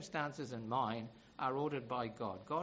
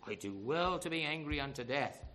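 mildly acted stubborn retort; still angry. Jonah answers the Lord's question, mildly angry retort. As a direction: answer back with a touch of anger. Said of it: "Because he's still angry".

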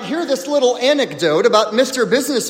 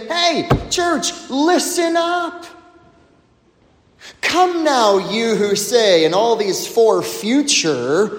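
a hint of James calling out; emphatic James. James warns the church, emphatic call. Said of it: "in a very emphatic way".

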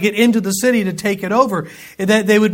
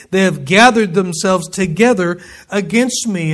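steady, earnest scripture reading. Acted. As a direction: read the verses with weight. Reads scripture aloud.

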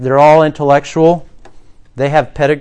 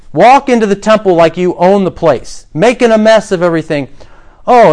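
mocking challenge; 4 semitones higher than usual. Leaders confront Jesus with taunts.

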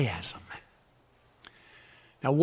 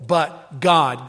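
weight on "God", said louder; emphatic; 5 semitones lower, 4 dB louder than usual. Shown as a demonstration. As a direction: land firmly on "God". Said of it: "a massive statement in the emphatic".

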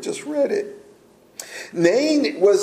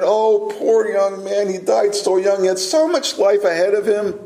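lightly acted pity, pitched a touch up; mock pity; 3 semitones higher than usual. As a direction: lament it as an imagined sympathetic onlooker. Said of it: "His compassion was not for".

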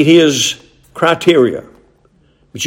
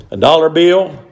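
auctioneer; 3 semitones higher than usual. Acted. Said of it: "I sound like a auctioneer there".

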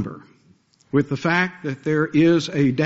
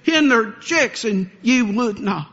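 impassioned lament; 8 semitones higher than usual. Acted. Preacher voicing Jesus pleading with Jerusalem, impassioned lament. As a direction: cry out over a beloved city, pitched high. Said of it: "Jesus talked like that".

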